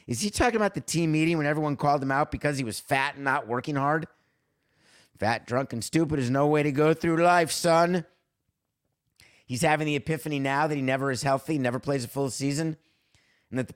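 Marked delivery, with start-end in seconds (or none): 5.2-8.1 stern dean. Retold or imitated. Famous movie quote, stern dean.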